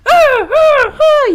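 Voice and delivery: very high, loud squawking bird cry; furious bird hollering; bongo bird yell. Acted. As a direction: screech it out like an angry jungle bird. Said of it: "yelled a bongo bird".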